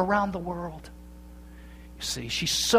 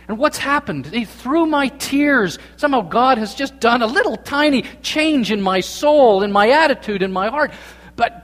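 higher-pitched, urgent preaching; impassioned sermon delivery; fervent preaching; 5 semitones higher, 3 dB louder than usual. Real, not acted. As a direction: lift the voice and press the point home. Preaches with rising fervour.

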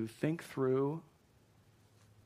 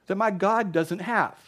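loud, high-pitched defiant shout; taunting challenge; 7 semitones higher, 8 dB louder, slower than usual. Acted. David challenges the big ugly giant, taunting shout. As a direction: shout down a towering enemy with defiance. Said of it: "but he says".

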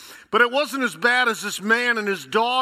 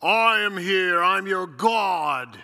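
voice of God; 4 dB louder, slower than usual. Acted. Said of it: "came thundering over the edge".

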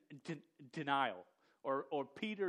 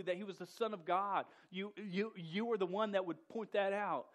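mock scolding of Peter; 5 semitones higher than usual. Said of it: "we look at something even like this and go".

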